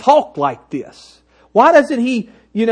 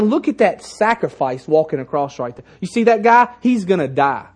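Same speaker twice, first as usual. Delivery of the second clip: grave pointing-out; 2 semitones lower than usual. Shown as a demonstration. Preacher showing what John really meant, grave. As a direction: point him out soberly as a sacrifice. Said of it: "He's saying".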